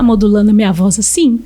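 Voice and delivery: low, sagging tune to sound sad; sad voice demo. Shown as a demonstration. Speech therapist demos a sad-sounding voice. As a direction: let the voice droop to show sadness. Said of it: "vocês vão achar que eu tô triste".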